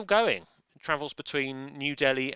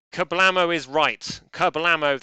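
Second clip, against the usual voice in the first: much louder, punchy KABLAMO; loud exclamation; 4 semitones higher, 11 dB louder than usual. Pretend. Quizmaster hyping leaderboard excitement, loud Kablamo. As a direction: blast out Kablamo like an explosion. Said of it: "that's the noise that happens".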